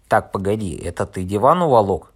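loud, angry demand in a quarrel; heated shout. Acted. Narrator confronting the intruder over the stolen sofa, shouting. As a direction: confront him loudly.

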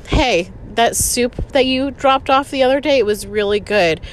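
mock sarcastic. Imagined comeback to boyfriend's mother, mock sarcastic. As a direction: feign a friendly remark with a dig in it. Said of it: "sarcastic comments were just ready".

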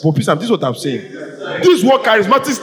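words pushed out through a laugh; amused, half-laughing protest; laughing while arguing. Real, not acted. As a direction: laugh as you make the point. Heated debate, laughing mid-point.

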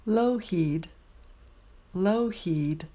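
Lougheed said LOH-heed, clearly; careful Lougheed. Shown as a demonstration. Teacher modelling Lougheed for practice.

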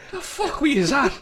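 high, laughing shocked question; laughing disbelief. Retold or imitated. Retelling asking her sister what happened, high laughing disbelief. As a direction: ask it while cracking up.

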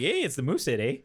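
light mock Canadian accent. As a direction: put on a hint of jokey Canadian. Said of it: "then you do the accent".

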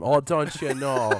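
a light Midwestern mom lilt, slow and laughing; light Midwestern accent, drawn out with a laugh; Midwestern mother. Retold or imitated. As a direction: tease him in a mild Midwestern mother voice. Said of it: "Midwestern mother on 'em".

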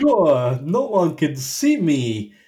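slow, exaggerated stage-Irish impression; bad Irish accent. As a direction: ham up a terrible Irish film accent. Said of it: "They're all doing Irish accents".

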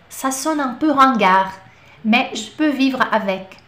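slow, careful French phrase for students; slow model phrase. Shown as a demonstration. Teacher repeating a French phrase slowly for learners, slow. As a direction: spell it out slowly for the class.

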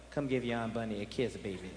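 Aunt Bunny cooing. Retold or imitated. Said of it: "it's like".

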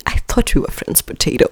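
breathy hurt whisper; mock-tragic whisper; whispered betrayal. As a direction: whisper it like a wounded friend. Dramatic betrayal reenactment.

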